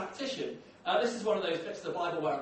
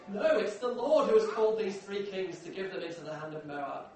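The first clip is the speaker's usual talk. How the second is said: loud, mock-doleful protest; hammed-up lament of a pessimist king; gloomy catchphrase; 2 semitones higher, 6 dB louder than usual. Preacher voicing a king's answer to the prophet, mock-gloomy protest. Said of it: "here's Jehoram's catchphrase".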